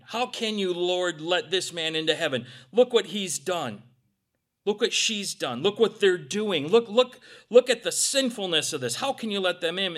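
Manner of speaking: sneering devil listing sins to God; accusing Satan. Acted. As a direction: jab each look at the sinner like a prosecutor. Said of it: "Satan's always pointing".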